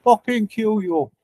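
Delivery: mock threat in an Irish accent; lightly put-on Irish accent, imitating an angry threat; extra Irish voice. Retelling Irish's debate threat to listeners, put-on Irish accent. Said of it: "put on that extra Irish voice".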